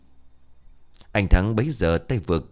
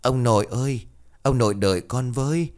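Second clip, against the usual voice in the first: put-on a small boy begging his grandfather not to leave; child crying after his dead father, pleading; whimpering child; 6 semitones higher than usual. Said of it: "nó liền mếu máo".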